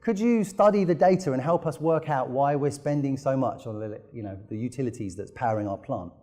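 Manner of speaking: a hint of a broad Aussie accent; Australian accent. Paper mill customer phoning about bills, light Australian accent. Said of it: "well, I will do the accent".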